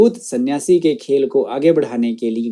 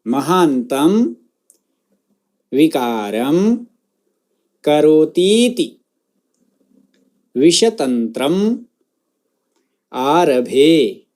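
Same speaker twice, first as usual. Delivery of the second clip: word-by-word model. Shown as a demonstration. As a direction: pronounce each word separately for students to echo. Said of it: "मेरे बाद उस शब्द का उच्चारण".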